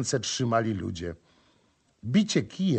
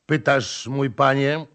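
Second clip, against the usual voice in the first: nasal reply; 2 semitones higher, 4 dB louder than usual. Acted. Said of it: "odparł jegomość znowu przez nos".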